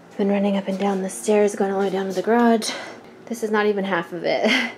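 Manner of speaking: breathless, catching air; gasping between phrases. Real, not acted. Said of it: "I'm out of breath".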